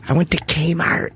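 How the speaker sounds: imitated Chicago accent. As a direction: mimic a comedian's heavy Chicago talk. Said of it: "When you hear him talk".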